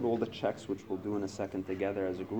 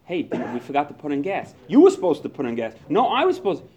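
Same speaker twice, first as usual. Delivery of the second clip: much louder, higher argument; husband blaming wife over gas, loud and high; car fight with wife; 3 semitones higher, 10 dB louder, faster than usual. Retold or imitated. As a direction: snap back at the wife. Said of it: "getting into a fight with your wife".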